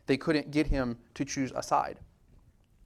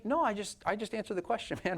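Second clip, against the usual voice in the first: laughing reply; 5 semitones higher than usual. Retold or imitated. Believer answering with a laugh.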